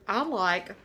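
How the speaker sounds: talking with a mouth full; words round a bite of food. Real, not acted. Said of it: "trying to not talk with my mouth full".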